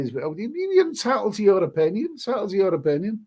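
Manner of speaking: a sing-song mocking quote of the trolls' stock line. Streamer mocking the stock line trolls hide behind, sing-song. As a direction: parrot it back in a teasing lilt. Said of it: "you gotta say".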